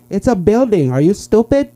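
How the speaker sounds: high-pitched impatient scolding; exasperated passenger. Acted. Lady passenger to driver asking about streets, exasperated. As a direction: play a lady fed up with her driver.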